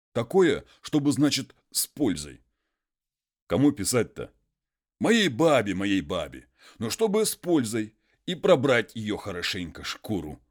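a hint of a humble muzhik pleading; peasant voice.

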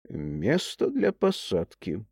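aside. Acted. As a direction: murmur it off to the side. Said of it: "как бы в сторону". (как бы в сторону, тихо)

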